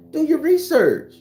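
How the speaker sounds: emphatic repeat. Real, not acted. Narrator insists the audience check facts, loud and slow. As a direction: hammer it home to the doubters.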